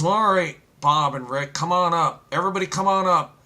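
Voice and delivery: lightly acted God calling people up; God giving in. God calling Bob and Rick up early, giving in. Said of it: "if God says".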